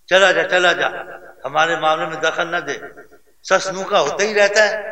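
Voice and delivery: mother angrily shoos her son out of a quarrel; angry mother. Retold or imitated. Mother to son, telling him to butt out, angry. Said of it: "مجھ پر غصے سے بولی".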